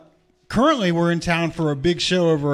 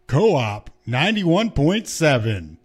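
slow, grand radio showman read; grand flamboyant showman; slower than usual. Shown as a demonstration. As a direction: announce it like a big showman. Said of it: "I did a special voice for that".

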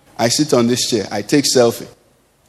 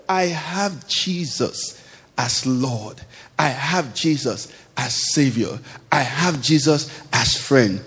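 slow, much softer inner voice; quiet musing; 3 semitones lower, 5 dB quieter, slower than usual. Acted. Believer asking himself in prayer, slow and soft. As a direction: savour each word, softly and slowly.

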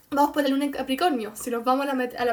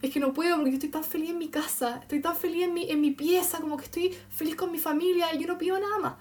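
weepy Cancer moon; 2 semitones higher, 3 dB quieter than usual. Acted. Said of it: "que se pone a llorar y dice".

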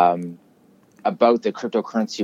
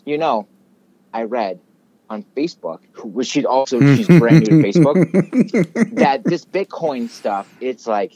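imitating mom; 3 semitones higher, 3 dB louder than usual. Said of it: "my mom goes".

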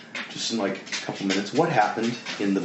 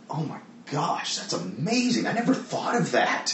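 imitating a gasp of wonder, voice pitched up high; mock amazement; 7 semitones higher than usual. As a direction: act out being blown away by a fresh insight, higher. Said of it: "I'm like".

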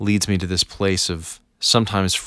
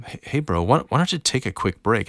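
calm suggestion; 3 semitones higher than usual. Retold or imitated. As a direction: gently suggest a break like a chill teammate. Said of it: "a teammate just calmly suggests".

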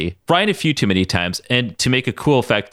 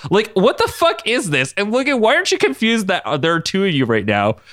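genuinely confused; 8 semitones higher than usual. A narrator's reading. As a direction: demand an explanation, bewildered. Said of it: "genuinely confused".

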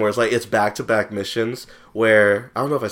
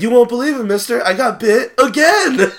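much higher, laughing, slowing at the end; hammed-up hapless man, much higher; mock hapless man; 12 semitones higher, 5 dB louder than usual. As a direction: whine it out like a sorry victim. Snake-bitten man asks for help.

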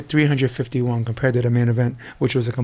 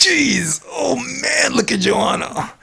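high cry of disgust; shocked cry; 11 semitones higher, much slower than usual. Real, not acted. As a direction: cry out at the gross sight. Reacting to gruesome photo.

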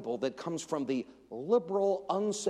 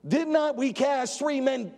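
king's question; 8 semitones higher, 5 dB louder than usual. Acted. Preacher voicing king's question.

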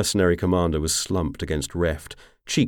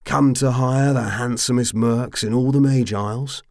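high, loud tipsy braggart; drunken mercenary boast; 7 semitones higher, 5 dB louder than usual. A narrator's reading. Anatin boasts of his mercs, tipsy and grand. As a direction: swagger through it, slurring pride.

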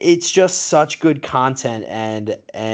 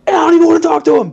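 put-on baby voice; 4 dB louder, much faster than usual. Imitating baby Stephen A clip.

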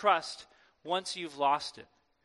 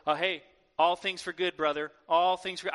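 lightly mock pious; 3 semitones lower than usual. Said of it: "Pious babble".

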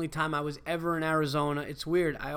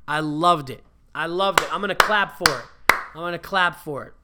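excited, building louder toward applause; raised, emphatic fan's rave; enthusiastic rave; 3 semitones higher, 6 dB louder than usual. Real, not acted. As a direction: gush about it, punching each phrase harder. Raving about a film, clapping.

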